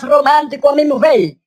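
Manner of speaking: comic fine, thinned-out voice; thin voice trying to sound romantic. Acted. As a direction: say it in a put-on dainty voice. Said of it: "Ahora yo tengo la voz más fina".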